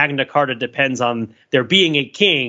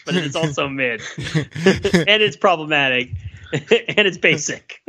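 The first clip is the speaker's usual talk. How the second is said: slow, laughing list of verdicts; laughing through words; slower than usual. Real, not acted. Piling verdicts on Planet Fitness, laughing slowly. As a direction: drag each verdict out while laughing.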